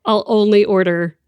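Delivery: playfully put-on podcasting voice with a pause; radio voice. Host jokes to guest about ordering drinks, mock radio voice. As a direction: lightly exaggerate your radio voice, pausing mid-sentence. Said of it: "in this voice".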